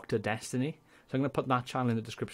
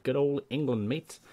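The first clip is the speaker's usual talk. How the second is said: put-on a clumsy English accent, pitched up on mate; bad English accent; 4 semitones higher than usual. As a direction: ham up a cheesy English accent. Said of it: "That was a terrible attempt at an English accent".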